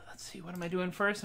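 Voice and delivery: muttered whisper while picking the song; whispered aside. Real, not acted. Host whispering to himself while choosing a song. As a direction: whisper it to yourself.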